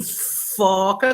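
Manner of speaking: "foca" with the opening f held long; prolonged first sound. Shown as a demonstration. Teacher confirms the first sound, "foca" with a drawn-out f. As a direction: stretch the f of "foca" before the vowel. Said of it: "Repita a palavra foca, como estou dizendo".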